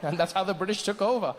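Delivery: measured storyteller with long pauses; mock-historical narration; story narration. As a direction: tell it as solemn history, phrase by phrase.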